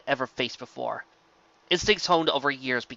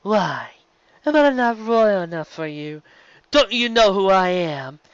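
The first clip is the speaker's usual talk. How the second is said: higher, slow mocking sneer; sarcastic villain; 7 semitones higher, 4 dB louder, slower than usual. A narrator's reading. Nightmare Moon mocks the rainbow mare, high sarcastic sneer. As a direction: sneer at the upstart. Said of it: "responding sarcastically".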